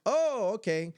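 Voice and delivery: taken aback. Retold or imitated. His taken-aback reply, retold.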